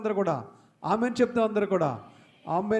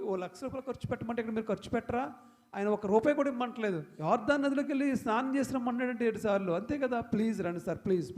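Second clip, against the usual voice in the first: pleading servants; faster than usual. Retold or imitated. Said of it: "ఇలా బతిమాలినప్పుడు".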